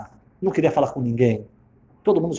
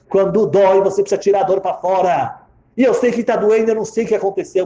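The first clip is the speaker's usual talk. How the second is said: louder, higher, forceful; impassioned urging; 5 semitones higher, 5 dB louder than usual. Retold or imitated. Old woman to suffering stranger, impassioned urging. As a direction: urge them to let it out.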